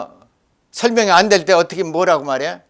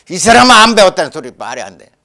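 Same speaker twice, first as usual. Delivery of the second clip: retold scolding with a loud attack; 야단치는 말; 6 dB louder than usual. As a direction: re-enact rejecting an excuse, louder. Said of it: "그 야단 쳤다니까". (큰 소리로 꾸짖는 흉내)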